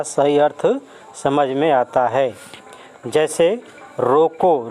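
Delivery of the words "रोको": slow रोको, held and set off by a comma; pause after रोको. Shown as a demonstration. Teacher shows students where the comma falls, pause after रोको. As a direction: draw out रोको, then stop. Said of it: "रोको के बाद comma दिया हुआ है".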